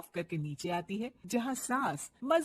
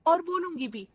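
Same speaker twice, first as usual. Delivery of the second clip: defiant retort; 7 semitones higher, 6 dB louder than usual. Acted. Bride answering back defiantly.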